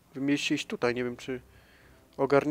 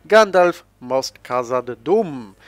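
loud mock-anguished call, drawn out slowly at the end; hammed-up film cry for the fallen wizard; dramatic cry; 9 dB louder, much slower than usual. Gamer hams up the cry for Gandalf falling, loud and slow.

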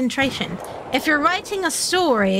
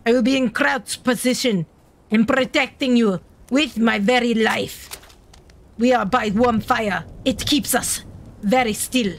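put-on German accent. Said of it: "You like my German accent?".

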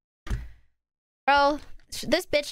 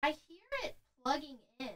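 much softer, quick hushed murmur; hushed listening; 14 dB quieter, much faster than usual. Real, not acted. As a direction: hush while you listen. Listening for device sound.

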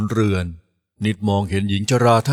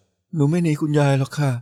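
put-on slow, sweet girl's voice; young girl sweetly reassuring the grandma; 5 semitones higher, slower than usual. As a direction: coax the old lady sweetly. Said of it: "นิดพูดเสียงหวาน".

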